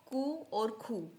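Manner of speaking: कू as "koo", खू as aspirated "khoo"; German letter Q. Shown as a demonstration. Teacher giving two Q options, कू "koo" and खू "khoo". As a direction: contrast plain k in कू with breathy k in खू. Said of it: "कू बोले या खू sound कराएं".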